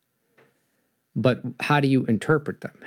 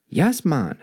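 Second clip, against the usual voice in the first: put-on Jamaican accent; 5 semitones higher than usual. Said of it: "Jamaican accent style".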